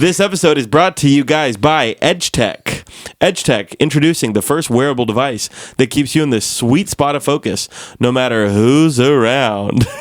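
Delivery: mock commercial announcer voice; ad read. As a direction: sell it like a radio ad. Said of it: "let's cut to our commercial break".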